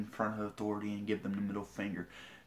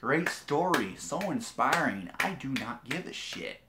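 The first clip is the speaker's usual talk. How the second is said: mock sincerity; 2 semitones higher than usual. Mocking reply to her lecture.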